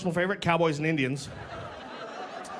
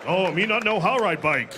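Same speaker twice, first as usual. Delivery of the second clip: mock savage role; 4 dB louder than usual. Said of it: "'cause I'm a savage".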